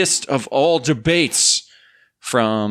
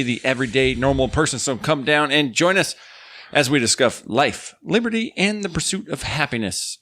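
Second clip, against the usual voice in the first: upbeat announcer read; podcast host intro. Acted. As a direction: welcome listeners like a radio host. Reads the show intro.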